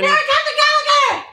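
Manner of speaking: high, showy self-announcement; dramatic entrance. Pretend. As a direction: announce yourself with a flourish.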